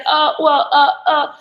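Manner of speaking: caught-out laughing stammer; imitating a man's awkward laugh; nervous laugh.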